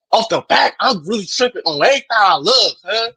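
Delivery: light impression of a West Coast accent. Shown as a demonstration. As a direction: slip casually into West Coast talk. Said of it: "give me your best West Coast accent".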